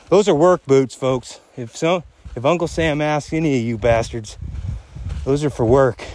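panting while walking uphill; talking out of breath. Real, not acted. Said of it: "does it sound like I'm out of breath".

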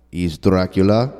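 slow, low vampire drawl on Dracula; slow it down like a count; Dracula accent. Pretend. Friend demonstrates the voice, slow low Dracula. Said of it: "I tell you now".

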